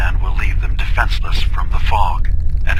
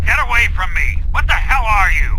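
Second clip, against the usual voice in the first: high, panicked recoil from a stranger; frightened outburst; 13 semitones higher than usual. Acted. Nick in the memory, terrified of his brother. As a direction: back away in alarm.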